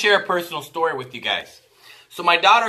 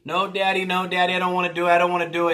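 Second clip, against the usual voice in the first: put-on pleading child's refusal, slightly raised; retold upset child; 3 semitones higher, faster than usual. Daughter begs dad not to make her do it, upset protest. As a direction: run the protests together like an upset kid. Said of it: "And she cried and she was upset".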